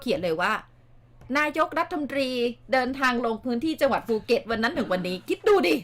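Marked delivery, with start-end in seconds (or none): 1.4-5.2 sarcastic read-out. Retold or imitated. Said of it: "ประชดประชดเอ".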